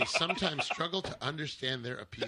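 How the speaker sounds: deadpan NPR narration; NPR style. Acted. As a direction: read it like a serious radio essay. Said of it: "N P R style?".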